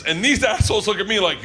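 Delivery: ordinary talk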